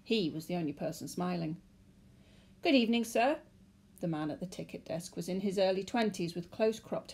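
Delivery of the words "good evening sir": polite clerk. A narrator's reading. Tired ticket clerk greeting.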